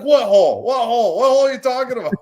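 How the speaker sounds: high, loud mock alarm; imitated terrified guy. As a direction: yelp it in hammed-up panic. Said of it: "this guy is terrified".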